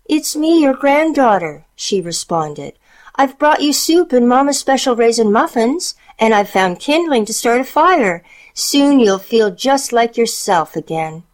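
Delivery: put-on high sweet girl voice; bright little girl talking. A narrator's reading. Child speaks to granny.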